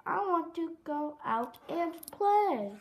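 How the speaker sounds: mild storybook protest, stretched on the last word; protesting cry. Acted. Froggy arguing with his mother, mild protesting cry. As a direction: plead like a kid kept indoors. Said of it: "cried Froggy".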